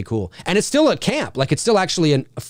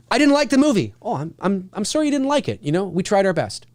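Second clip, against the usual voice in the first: mock fan and studio; 3 semitones higher, faster than usual. Acting fan and studio exchange.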